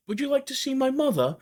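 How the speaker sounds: high, fragile, pleading Merrick impression; John Merrick voice. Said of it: "I'm sorry to do this voice".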